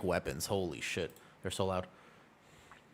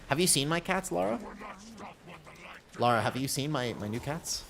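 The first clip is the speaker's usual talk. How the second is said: a hint of a doddery old lady, higher; dotty absent-minded old lady; 6 semitones higher than usual. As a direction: ask about the cats like a forgetful granny. Asking Laura about her cats.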